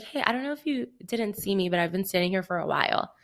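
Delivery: retold gentle, friendly ask; so nice. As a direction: imitate your own sweetest, careful request. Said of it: "Like, so nice".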